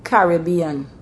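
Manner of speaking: "Caribbean" stressed on first and third syllables; Bajan pronunciation. Shown as a demonstration. Showing the Barbados way, "Caribbean" as CARR-ih-BEE-an. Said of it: "in Barbados, um, we would say".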